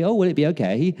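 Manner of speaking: lightly voiced condescending comfort; patronizing sympathy. Friend answering news of cancer or depression, patronizingly. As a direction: offer mock sympathy, talking down a little. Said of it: "It's not patronizing".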